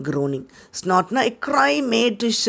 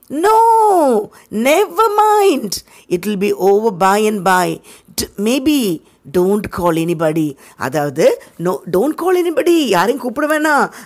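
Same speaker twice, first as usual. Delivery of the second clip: ironic fake moan; much slower than usual. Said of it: "ஐரானிக்கலா, சட்டையரா பேசுறது".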